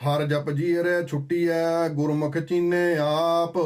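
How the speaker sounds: slow, measured reciting of the verse; scripture recitation. Acted. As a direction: intone each word of the hymn deliberately. (ਹੌਲੀ ਹੌਲੀ ਗੁਰਬਾਣੀ ਦਾ ਪਾਠ)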